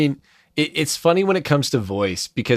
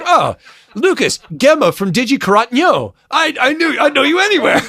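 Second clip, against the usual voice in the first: high, loud fan squeal; imagined fan gush; 12 semitones higher, 6 dB louder than usual. Pretend. Imagined fan greeting him, high and gushing. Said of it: "No one's ever been like".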